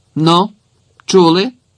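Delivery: strict, severe voice. The master turns to the two left in the kitchen, stern. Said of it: "строго звернувся пан".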